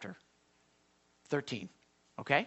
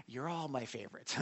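parent dodging; 5 semitones lower, 11 dB quieter than usual. Retold or imitated. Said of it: "You ever have your kids".

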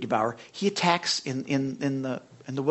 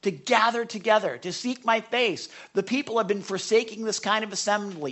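louder lumberjack voice reading; gruff booming lumberjack; 5 semitones higher, 5 dB louder than usual. Retold or imitated. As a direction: boom it out like a lumberjack. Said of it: "read it in his voice".

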